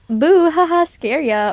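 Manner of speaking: a cutesy boo to startle chat; startling boo. Retold or imitated. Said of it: "it was so cringe".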